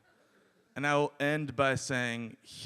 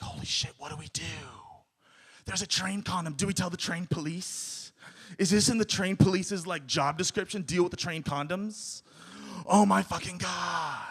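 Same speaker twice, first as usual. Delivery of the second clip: higher-pitched mock panic; retold alarm; 4 semitones higher than usual. Comic telling friends' shock at a train condom, mock alarm.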